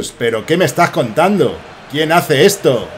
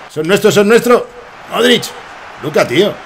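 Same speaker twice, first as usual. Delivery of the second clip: excited shout; 6 semitones higher than usual. Real, not acted. Big chance in match.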